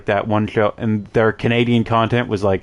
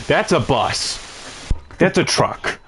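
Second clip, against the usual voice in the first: higher-pitched mock disbelief; retold astonishment; 4 semitones higher than usual. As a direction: act out being stunned by the size. Retold shock at seeing a moose.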